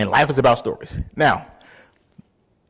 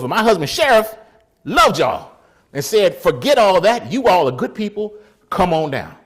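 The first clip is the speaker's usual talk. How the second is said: landlady relenting; 7 semitones higher, 9 dB louder than usual. Retold or imitated. Landlady loudly relenting, retold.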